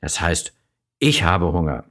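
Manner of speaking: a hint of a stern dad setting her straight; correcting father. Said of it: "kommt der Papa daher und sagt".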